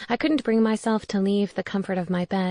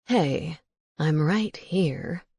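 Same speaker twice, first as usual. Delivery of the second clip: owl voice; 3 semitones lower, much slower than usual. Acted. Owl Sedgwick speaks.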